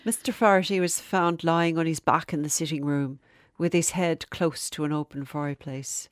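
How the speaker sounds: light Irish lilt, buck for back; a hint of Irish storyteller; Irish accent. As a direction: read it with a touch of Irish. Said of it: "Just a touch of an accent there".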